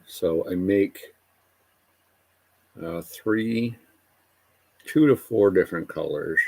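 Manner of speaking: talking around a paintbrush in the mouth; words muffled by a brush between teeth. Real, not acted. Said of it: "Sorry, I got a paintbrush in my mouth".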